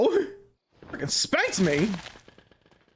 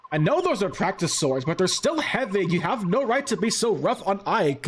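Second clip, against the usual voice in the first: put-on valley girl. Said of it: "every time I do a girl voice, it's just a Valley Girl voice".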